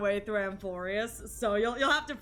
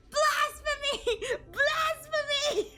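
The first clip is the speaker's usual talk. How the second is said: outraged shout; much slower than usual. Retold or imitated. Eito denouncing Nozomi, hammed-up outraged shout. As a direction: bellow it like a scandalised priest, laughing. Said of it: "just looks at Nozomi and goes".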